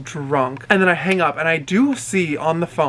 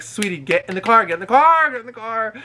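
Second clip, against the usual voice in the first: retold urging; 5 semitones higher than usual. Driver urges drunk girl into the car, insistent. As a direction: coax with a rising, insistent repeat.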